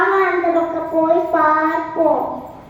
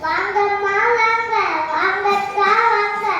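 singsong street hawker. Acted. Shopkeeper calling customers.

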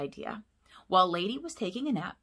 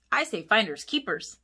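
cried out; 3 semitones higher, 5 dB louder than usual. Acted. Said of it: "Scamp cried".

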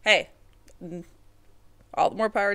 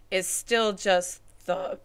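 voice giving out; 3 dB louder, slower than usual. Real, not acted. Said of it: "my throat is going out".

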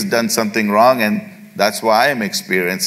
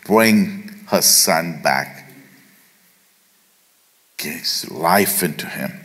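earnest prayer; slower than usual. Retold or imitated. Elijah's prayer voiced.

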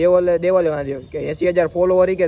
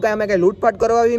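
retelling a heated reply, pitched up and louder; raised voice; 5 semitones higher, 3 dB louder, faster than usual. Retold or imitated. To the teacher at the government school, heated raised voice. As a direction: argue back hard at the school teacher. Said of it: "હું એટલા ઊંચા અવાજથી બોલ્યો".

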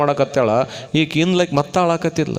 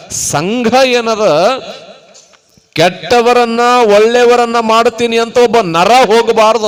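higher, louder sermon voice; emphatic, raised preacher's delivery; forceful preaching; 6 semitones higher, 7 dB louder than usual. Real, not acted. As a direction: drive the moral home to a congregation.

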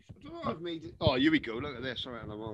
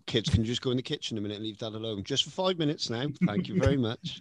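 a hint of a commanding dad, lower and fast; 4 semitones lower than usual. To his kids, asking them to leave Dad alone, mildly commanding. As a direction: politely order the kids out, lightly voiced. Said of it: "my dad voice ... a slightly commanding tone".

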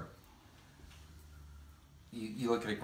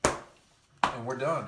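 drawn out; 4 dB louder, much slower than usual. Real, not acted. Dragged-out sign-off.

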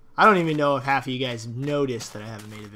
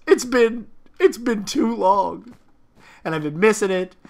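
dramatic; 6 semitones higher than usual. Pretend. Hammed-up sentimental line after announcer.

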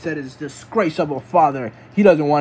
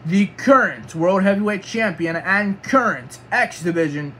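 ring announcer; 3 semitones higher than usual. Pretend. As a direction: ring announcer's formal introduction. Announces the champion entering.

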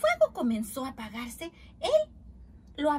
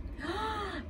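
high storybook gasp; excited gasp; 6 semitones higher, 4 dB quieter than usual. Acted. Reader shows uncle's new hat, excited gasp. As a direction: draw a wondering breath.

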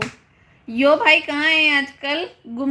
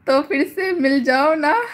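laughing; 2 semitones higher than usual. Real, not acted. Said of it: "बस हंसी आ रही".

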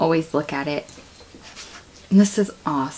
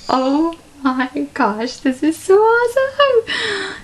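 much higher, slow, drawn-out squeal of delight; overjoyed squeal; 9 semitones higher, slower than usual. Real, not acted. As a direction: squeal it out like a thrilled fan. Overjoyed opening a gift.

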